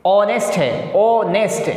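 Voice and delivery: ऑनेस्ट starting on an O sound; teacher's model ऑनेस्ट, opening straight on the vowel; silent H. Shown as a demonstration. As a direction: pronounce ऑनेस्ट with no H, "o-nest". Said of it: "ये ओ की आवाज़ निकलेगी".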